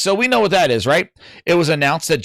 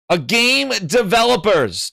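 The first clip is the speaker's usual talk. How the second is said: overclear repetition; 3 semitones higher than usual. Shown as a demonstration. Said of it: "for those that are hard of hearing".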